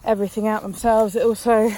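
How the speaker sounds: breathless, talking between breaths; out of breath from lunging. Real, not acted. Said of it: "sorry, I'm so out of breath".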